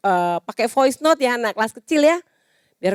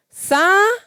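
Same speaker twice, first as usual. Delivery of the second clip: gentle sabar; 10 semitones higher than usual. Shown as a demonstration. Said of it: "sambil ngomong".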